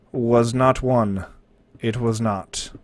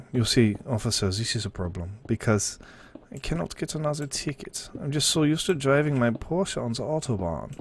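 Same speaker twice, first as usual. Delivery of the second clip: lightly put-on German accent to a cop; a faint German accent, talking his way out of a ticket; bad German accent; 7 dB quieter than usual. Streamer pleading with an officer in a weak German accent. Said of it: "It's a terrible German accent".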